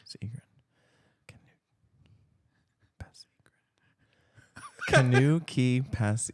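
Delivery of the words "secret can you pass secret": whispering the puzzle words; barely audible whisper to oneself; not aloud. Real, not acted. Player murmuring puzzle words to work them out, whispered. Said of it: "you're not saying it loud".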